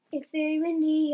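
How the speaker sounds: high, loud yell. A narrator's reading. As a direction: yell it over a storm. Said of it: "yelled Dixon".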